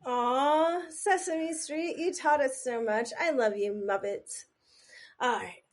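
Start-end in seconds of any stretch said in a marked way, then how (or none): 0.1-4.4 sentimental. Real, not acted. Gushing over Sesame Street.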